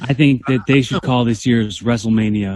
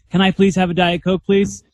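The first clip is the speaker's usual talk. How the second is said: higher, overly polite asking; mock polite request; 7 semitones higher than usual. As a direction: beg sweetly, hammed-up. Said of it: "talk like everybody else and be like".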